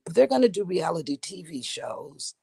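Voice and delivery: husky catch in the throat; frog in throat. Real, not acted. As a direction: talk through a frog in the throat. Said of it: "let me clear my throat".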